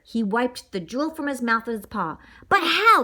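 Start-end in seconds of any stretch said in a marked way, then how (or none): 2.5-3.0 high, loud puzzled exclaim. Acted. Wolf asking the boss, loud puzzled exclaim. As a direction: blurt out the question, baffled. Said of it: "exclaimed Sizzle".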